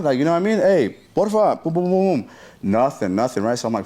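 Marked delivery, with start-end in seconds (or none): 0.6-1.6 high, drawn-out begging; retold begging for help; acted plea. Acting out plea at the doors. 1.6-2.3 high repeated booms; quick run of pitched-up thuds; imitated pounding. Imitating banging on the doors.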